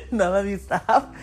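laughing. Real, not acted.

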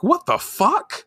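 high, slow baffled exclamation; acted disbelief. Minako sees the pen turn antenna, high-pitched disbelief. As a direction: draw it out in mock bafflement.

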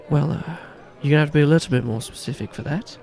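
guarded Irish barman wanting details; Irish bartender. Acted. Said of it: "this strong-built Irishman".

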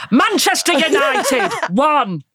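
high, slow, plummy posh voice. Pretend. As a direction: announce it grandly and posh. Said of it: "I'll do it posh".

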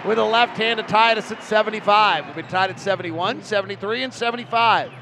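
urgent running commentary; live play-by-play. Real, not acted. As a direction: call the action live, rising toward the payoff. Live play-by-play building to basket.

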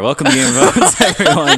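announcer voice. Acted. Mock podcast intro.

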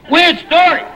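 high, loud shocked cry; shocked outburst. Acted. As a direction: blurt it out in disbelief. Shocked on the phone.

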